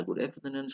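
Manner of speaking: "good afternoon" lifted, then falling; contrasted intonation. Shown as a demonstration. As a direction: raise "afternoon" and let it drop. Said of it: "tidak, tidak sama ya intonasinya".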